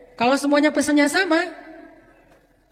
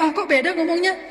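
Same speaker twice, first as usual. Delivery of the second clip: mock surprise; 5 semitones higher than usual. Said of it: "kita kaget".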